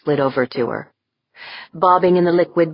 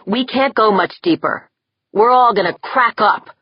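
scared urgency; 7 semitones higher, 4 dB louder than usual. Acted. Yeager scared, pushing.

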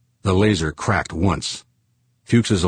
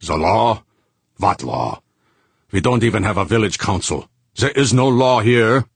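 roaring; 5 semitones higher, 4 dB louder than usual. Acted. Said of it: "he roared".

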